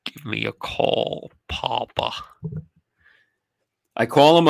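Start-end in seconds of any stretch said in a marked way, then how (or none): 0.0-2.1 manager on the phone. Retold or imitated. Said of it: "He goes".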